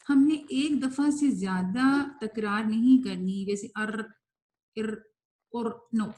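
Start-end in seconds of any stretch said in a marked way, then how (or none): 3.8-5.8 "ار" with the r rolled many times; too much trill. Shown as a demonstration. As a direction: overdo the trill on "ار", as a mistake. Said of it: "یہ زیادہ تکرار ہو جائے گی". (زیادہ تکرار والی را)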